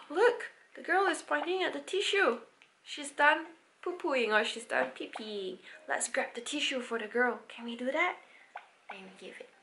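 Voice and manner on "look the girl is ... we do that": gasp, higher, lively look-at-this voice; excited gasp. Shown as a demonstration. Parent pointing to the girl in the app, excitedly. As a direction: draw the child in with wonder. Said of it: "parents take control of the device".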